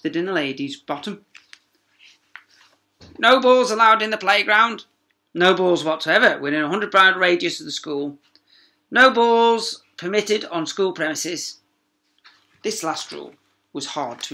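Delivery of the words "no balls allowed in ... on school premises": loud, higher, strict proclamation; stern sign reading. Acted. Teacher's warning signs read out loud and stern. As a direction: proclaim the rules like an official notice.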